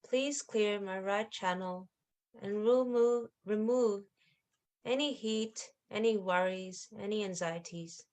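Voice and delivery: quiet, unhurried prayer to the Mother; gentle spoken affirmation with long pauses; meditative prayer. Acted. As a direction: pray softly, pausing between phrases.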